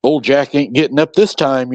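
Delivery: casual, offhand delivery; nonchalant. Retold or imitated. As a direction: say it like it's nothing. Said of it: "just nonchalantly said".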